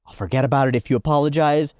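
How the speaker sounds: insist, voice jumping up; mock indignant demand.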